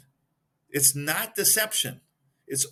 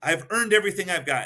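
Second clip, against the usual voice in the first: Nixon's claim, louder; 4 semitones higher, 4 dB louder than usual. Retold or imitated. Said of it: "He shakes his head yes".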